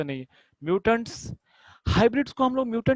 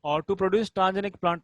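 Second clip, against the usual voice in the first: dictating the question word by word; measured classroom read-aloud; slow reading; much slower than usual. Shown as a demonstration.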